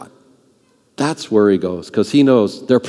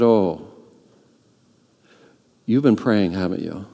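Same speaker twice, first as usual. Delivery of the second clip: quiet realization; 5 semitones lower, 5 dB quieter than usual. Retold or imitated. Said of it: "And I said".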